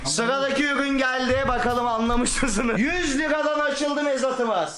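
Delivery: slow, drawn-out auction call; auctioneer. Acted. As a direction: announce the lot like an auctioneer. Hosts a mock auction. (açık artırma sunucusu gibi)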